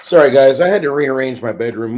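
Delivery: normal talking voice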